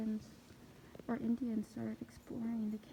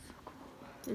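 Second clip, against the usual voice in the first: whisper; 11 dB quieter than usual. Real, not acted. Awed whisper in cave.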